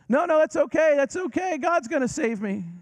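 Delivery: high, loud, insistent refusal; man on the roof refusing help; stubborn man on roof. Retold or imitated. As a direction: wave off the rescue cheerfully.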